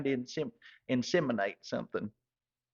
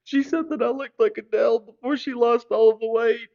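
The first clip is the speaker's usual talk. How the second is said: put-on much higher, much louder shrill drunk lady; 10 semitones higher, 9 dB louder than usual. Drunk lady at the bar gushing over his hair, loud and much higher. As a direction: squeal it like a tipsy woman at the bar.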